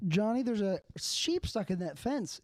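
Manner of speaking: high, slow excited call; high-pitched mock Irish lad calling his friend; voicing Tim. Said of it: "And he's like".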